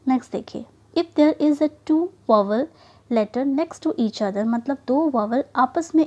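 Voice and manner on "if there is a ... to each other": slow rule reading. Shown as a demonstration. Teacher reading a spelling rule to the class, very slowly. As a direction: read the rule very slowly and deliberately. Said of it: "reading rule slowly".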